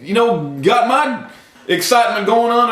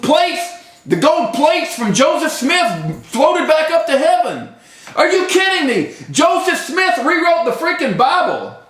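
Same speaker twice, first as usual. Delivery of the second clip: high-pitched, indignant political rant; worked-up yelling; 4 semitones higher than usual. Real, not acted. Vlogger ranting about Romney and his Mormon beliefs, worked-up yelling. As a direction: rail at them in raised, incredulous pitch. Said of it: "Here I am yelling".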